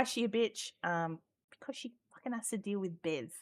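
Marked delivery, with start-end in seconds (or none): 1.5-3.3 unvoiced joking whisper; a quick whispered dig at Bev. Real, not acted. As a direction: slip the joke out under your breath. Joking aside about Bev.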